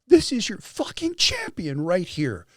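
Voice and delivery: slow, high proclamation to a crowd; mock scream. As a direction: imitate an emotional announcement, stretching the words. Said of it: "he screams into the audience".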